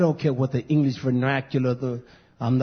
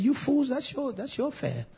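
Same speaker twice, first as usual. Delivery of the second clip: dismissive retort; 11 semitones higher, 8 dB quieter than usual. Retold or imitated. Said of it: "That's how I said it".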